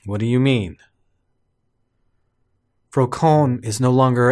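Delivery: lightly acted, measured character lines; game dialogue reading. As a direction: read it out as earnest story dialogue, lightly played.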